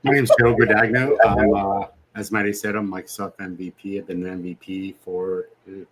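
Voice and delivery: muffled through a hot mask; inside a rubber mask. Real, not acted. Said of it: "this mask is hot".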